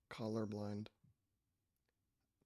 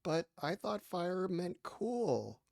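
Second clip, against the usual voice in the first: slow, slightly higher child imitation; lightly voiced kid; 4 semitones higher, slower than usual. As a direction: lightly mimic a confused kid. Playing along as a kid.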